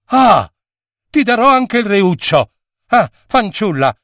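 a queen's sudden outburst of gratitude; grateful exclamation. Acted. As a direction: gush out your thanks. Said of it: "esclamò in un impeto di gratitudine".

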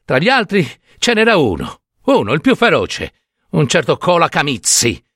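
lightly voiced anguished old storyteller; an old woman insisting on what she saw; distressed old peasant woman. Old peasant woman confiding horrors to the doctor, distressed.

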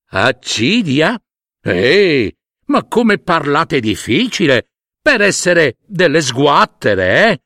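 a hint of the elephant's sneer; scoffing elephant. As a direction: scoff at their fancy word. (elefante che sbeffeggia le formiche)

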